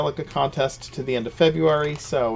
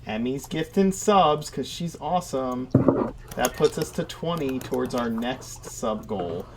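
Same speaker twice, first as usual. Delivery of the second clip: upbeat stream announcer. Acted. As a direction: hype it up like a fighting game announcer. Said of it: "Is that your announcer voice".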